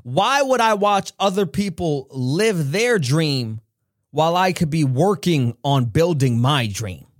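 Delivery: a hint of a wise older mentor; Les Brown. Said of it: "He said".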